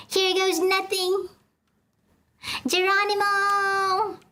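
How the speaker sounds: brace and jump with a yell; leaping yell. Acted. Character leaps down.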